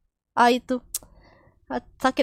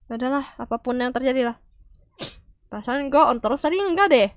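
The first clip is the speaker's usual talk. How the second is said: ordinary talk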